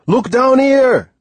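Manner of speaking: high, drawn-out shout to the sky. A narrator's reading. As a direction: call up to someone far away. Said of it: "He shouted".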